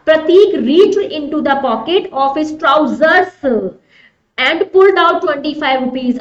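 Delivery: slow, deliberate sentence reading; measured classroom dictation pace; exam sentence read-out. Acted. Reads exam sentence aloud.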